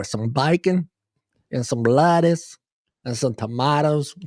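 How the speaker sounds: a light Southern accent on the sandwich order; Southern boy. Shown as a demonstration. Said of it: "I'll say it like a Southern boy".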